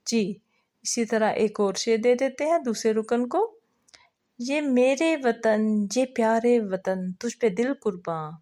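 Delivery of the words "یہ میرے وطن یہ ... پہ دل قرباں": slow, drawn-out first recital of the lines; verse recitation. Shown as a demonstration. Teacher chanting a patriotic song line for the second group member, slowly. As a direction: stretch each phrase like a slow chant.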